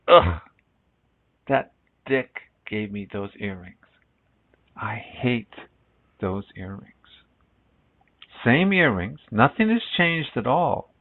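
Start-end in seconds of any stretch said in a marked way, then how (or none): 0.1-6.9 a mock groan of disgust, then sour and quieter; disgusted wife. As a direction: sneer at the earrings from a cheating husband. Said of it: "and she goes".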